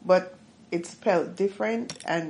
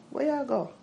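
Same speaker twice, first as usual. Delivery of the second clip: "Where I go" quick and clipped, Jamaican; don't stretch the vowels, Jamaican; undragged Jamaican; 8 semitones higher than usual. Shown as a demonstration. Other Jamaicans saying it without the drag. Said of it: "they don't drag it".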